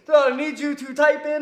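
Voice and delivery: singsong Middle Eastern caller voice; imitated Middle Eastern accent. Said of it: "a Middle Eastern accent comes on".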